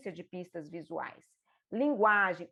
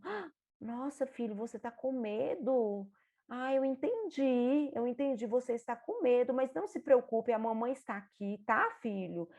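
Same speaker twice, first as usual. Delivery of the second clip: calm his fear; reassuring; 2 semitones higher than usual. Shown as a demonstration. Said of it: "mostra pra ele que você entendeu". (mãe tranquilizando o filho com medo)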